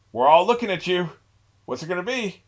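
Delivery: loud and high, daring him to choose; a staring crowd's hammed-up challenge; mock crowd challenge. Voicing the crowd confronting him.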